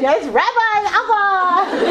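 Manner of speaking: high, drawn-out acted greeting; slow, hammed-up high salute; mock greeting. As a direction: imitate visitors hailing him in a high voice. Acted greeting of everyone coming in.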